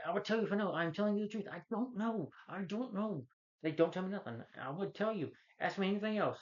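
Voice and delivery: high-pitched mock begging; high, whiny-pleading retold protest; mock desperate pleading. Retells captive pleading with his interrogator.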